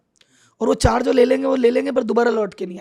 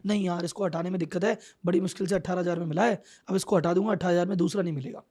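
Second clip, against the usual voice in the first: lower, softer imitation of a reluctant boss; reluctant excuse; 4 semitones lower, 5 dB quieter than usual. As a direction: make excuses under your voice, putting it off. Voices boss reluctant to fire.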